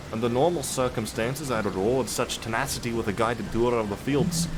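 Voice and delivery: loosely Scottish or Irish character reading; attempted Irish or Scottish accent. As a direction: have a go at an Irish or Scottish lilt. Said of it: "supposed to do Irish or Scottish there".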